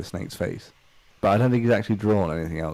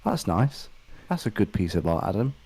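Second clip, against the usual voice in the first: mock proud parent; 3 semitones higher than usual. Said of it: "and you going".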